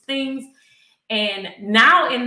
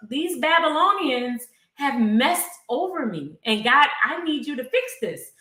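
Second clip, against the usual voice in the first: mildly heated, higher-pitched imitation of a complaint; lashing out; 4 semitones higher than usual. Psalmist telling God he is angry, lashing out. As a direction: plead indignantly, a touch of anger. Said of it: "He's lashing out".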